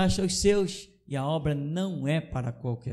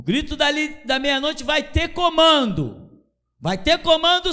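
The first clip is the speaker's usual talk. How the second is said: high, loud preacher's cry; shouted preaching; 11 semitones higher, 6 dB louder than usual. Acted. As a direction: bellow it to the congregation. (grito de pregador, bem alto)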